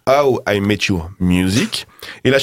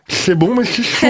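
higher and slower, "C'est bon, mais c'est chaud" with a lift on "mais"; mock ad catchphrase, high and slow; imitating the ad; 9 semitones higher, slower than usual. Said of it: "elle me répète sans cesse".

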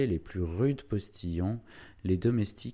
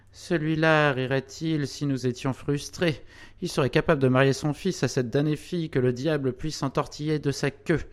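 higher-pitched, indignant outburst; indignant exclamation; 6 semitones higher, 3 dB louder than usual. A narrator's reading. Crémière railing at the mayor to the other heirs, indignant. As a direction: exclaim it with rising irritation, voice pitched up. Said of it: "s'écria Crémière en serrant les poings".

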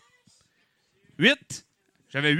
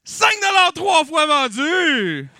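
auctioneer shout; 9 semitones higher, 7 dB louder, slower than usual. Acted. Auctioneer closing the sale.

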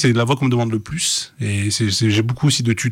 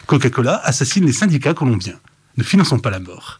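lightly salesy, well-articulated product pitch; teleshopping voice. Shown as a demonstration. Voice actor demonstrating his corporate work, teleshopping voice. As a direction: lean on the consonants and vowels to oversell. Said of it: "la voix téléachat".

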